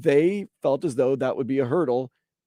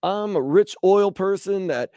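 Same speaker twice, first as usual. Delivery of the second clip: rich oilman with a light Texas twang; halfway Texas accent; 2 semitones higher than usual. Acted. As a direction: play a Texas booster, accent only half on. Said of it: "putting on this halfway Texas accent".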